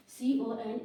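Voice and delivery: each letter drawn out slowly; teacher's slow letter-by-letter dictation; slow spelling. Shown as a demonstration.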